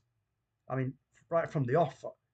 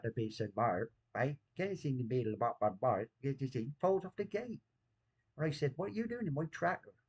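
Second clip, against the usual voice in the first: put-on Bristol accent; 3 dB quieter than usual. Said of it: "do the Bristol accent".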